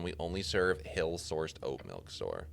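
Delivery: slow, snobby clerk with a touch of disdain. Acted. Cleric playing along with the goblin's milk joke, snobby. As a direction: lightly play the snob, slowly. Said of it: "Answer in a snobby tone".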